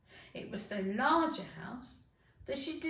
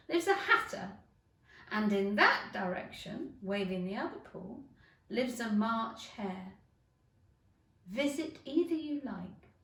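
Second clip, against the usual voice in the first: lightly voiced Cheshire Cat. Cheshire Cat points the ways.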